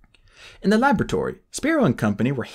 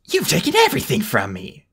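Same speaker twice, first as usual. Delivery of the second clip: shouting; 4 semitones higher than usual. Acted. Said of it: "he shouted".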